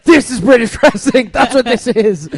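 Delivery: loud, proud declaration; mock proclamation. Fan proudly declaring his wrestling loudly. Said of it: "I'm like".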